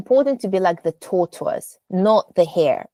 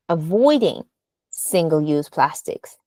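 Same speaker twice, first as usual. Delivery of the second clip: emphatic falling close on "plastics"; go down to emphasize; 3 semitones lower than usual. Shown as a demonstration. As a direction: lift "avoiding", pause, then drop on "plastics". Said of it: "go down to emphasize".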